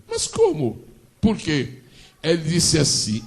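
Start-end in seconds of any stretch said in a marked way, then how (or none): 0.1-1.8 Agar pleading. Acted. Preacher voices Agar.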